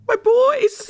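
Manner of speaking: high doting coo; cooing fondly. Acted. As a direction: coo it like a proud parent. Fond cooing over characters.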